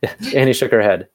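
real laugh breaking into the line; amused, recovering from giggles. Real, not acted. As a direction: restart the line through a chuckle. Narrator laughs at a misread.

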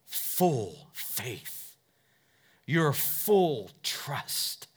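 drawn-out hushed whisper; slow whisper. Real, not acted. Preacher urges full trust in a slow whisper. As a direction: whisper it slowly, stretched. Intimate altar call to listeners.

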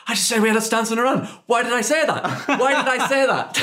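high, fast, panicked. Retold or imitated. Recalling her panic after the meeting, high and fast. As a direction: rattle it off in a high panic, half laughing. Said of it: "looked at me with this dread fear".

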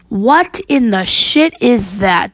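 slow, emphatic exclamation; mild scream. Acted. Drifter reacting to the ghost, mildly screamed. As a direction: stretch it out in understated alarm. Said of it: "the drifter screamed".

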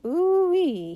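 high, loud hooting call; long high hoot inside a quote. A narrator's reading. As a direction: demonstrate the holler, drawn out. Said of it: "by calling".

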